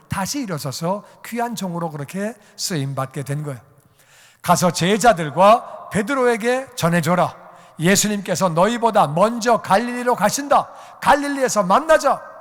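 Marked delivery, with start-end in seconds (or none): 4.4-12.3 loud, emphatic announcement, rising higher; full-voiced herald's command; proclamation. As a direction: proclaim the message to a whole crowd. Preacher proclaims the angel's message forcefully.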